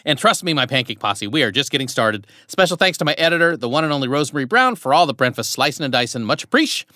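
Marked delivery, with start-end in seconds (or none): 0.0-3.9 promo read. Acted. Host reads podcast outro promo.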